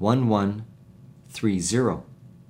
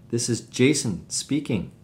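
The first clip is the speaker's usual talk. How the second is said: JASON stressed, falling to the end; sentence stress demo. Shown as a demonstration. Teacher models a phone answer for learners, stress on "Jason". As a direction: put the main weight on "Jason". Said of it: "Listen how the following sentences are spoken".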